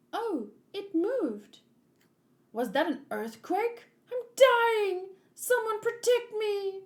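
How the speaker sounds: high, loud panicked cry of a timid princess; frightened princess. Acted. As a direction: shriek for someone to save you. Voicing frightened Princess Shirahoshi.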